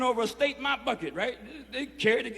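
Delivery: ordinary talk, nothing marked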